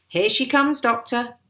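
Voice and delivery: eager, high-pitched heads-up; calling out. A narrator's reading. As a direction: call the news over, loud and high. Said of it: "my father called out".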